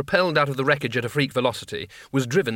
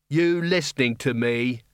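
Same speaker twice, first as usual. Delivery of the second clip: suspiciously. Acted. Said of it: "said the captain suspiciously".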